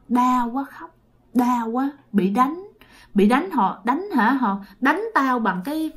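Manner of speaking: soft, halting complaint of pain; acted pained murmur; tearful spirit. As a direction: whimper it weakly like a suffering ghost. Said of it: "Sao khóc vậy?".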